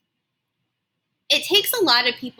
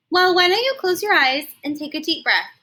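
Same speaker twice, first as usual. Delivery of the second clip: higher, soothing mom giving advice; mother calmly suggesting her daughter breathe; Mama's voice; 6 semitones higher than usual. Acted. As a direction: coax the child like a patient mother. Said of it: "Mama said".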